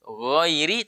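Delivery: GHAIRI with a gentle voiced gh, drawn out; soft ghain. Shown as a demonstration. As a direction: keep the first sound of GHAIRI light and voiced. (ghairi dengan lembut)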